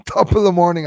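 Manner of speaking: high, loud mock-Irish greeting with a laugh; playful Irish accent. Non-Irish streamer having fun with accents, laughing Irish accent. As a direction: belt it out in a put-on Irish accent.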